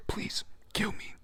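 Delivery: high, slow whispered plea; a desperate whispered plea to be killed; pleading. Acted. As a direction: beg for death in a thin high whisper. Man begging them to kill him.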